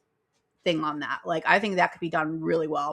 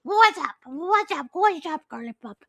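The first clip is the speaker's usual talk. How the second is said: high-pitched pet voice; dog's voice; 9 semitones higher, 3 dB louder than usual. Acted. Podcaster speaking for her dog, high put-on voice. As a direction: chirp it as a cheeky little dog. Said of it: "But he's like".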